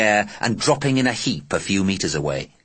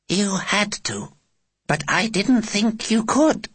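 captain voice; 12 semitones higher, slower than usual. Acted.

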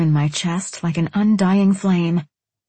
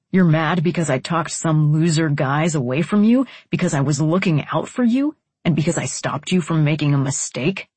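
indignant man's voice, slightly lowered; exasperated man; 3 semitones lower than usual. Acted. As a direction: challenge her in a lower man's voice.

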